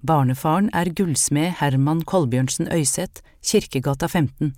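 stare him down and state it plainly; firm voice. Acted. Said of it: "sa med bestemt stemme".

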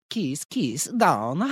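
put-on soft "keese keese down" in Italian accent; mock Italian accent. Host as Italian date across the table, Italian accent. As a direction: imitate an Italian man's quiet come-on. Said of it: "he's just gonna go".

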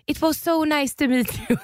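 put-on high-pitched Swedish-accented English; Swenglish. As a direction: read his message in mock Swenglish. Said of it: "På engelska".

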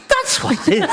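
very high-pitched mock eureka, through laughter; punchline blurted high, breaking into laughter; triumphant retold exclamation. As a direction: imitate a priest crying out his sudden realisation. Priest's triumphant punchline in retold exchange.

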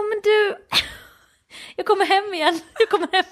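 lightly imitated high-pitched panic; panicked reassurance. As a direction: backpedal anxiously, with a laugh breaking in. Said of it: "han får panik".

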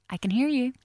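passive-aggressive nice. Shown as a demonstration. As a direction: make a complaint sound nice. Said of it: "it's passive aggressive".

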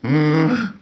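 strained wordless hum, mimicking choking; imitated choking noise. Partner being smothered in his sleep, imitated choking moan. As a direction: imitate a sleeper struggling to breathe. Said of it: "that explains why he was like".

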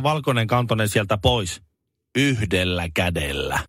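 mock news read. Host reading the good-news closer, mock news read. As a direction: read the closing story like a bulletin. Reads joke closing news item.

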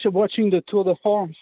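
Tour de France with a French accent. Real, not acted. Caller to radio host, in a French accent. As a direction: slip into a French accent on the race name. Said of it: "you said that with a very convincing French accent there".

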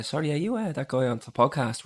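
a gently hushed imitation of the mum's question; soft-spoken. Imitating his girlfriend's mum asking shyly, softly spoken. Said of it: "Real soft spoken".

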